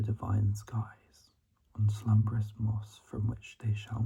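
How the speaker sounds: hushed, measured poetry recital; poem reading. Real, not acted. Student reading own poem to listeners, hushed recital. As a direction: whisper the verse, pausing after each phrase.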